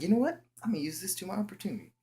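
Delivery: very high and loud, then rattled off fast; hyped-up high boy voice; scheming excitement. Retold or imitated. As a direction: blurt it out high, racing through the plan. Boy sees his chance.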